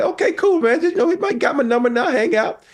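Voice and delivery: high, quick casual voice; mock casual reply. To Edward Norton, high quick casual. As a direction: toss it off high and fast.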